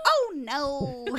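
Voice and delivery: imitated toddler daughter. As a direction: mimic a tot's little dismay. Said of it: "doing this crazy thing now this week where she goes".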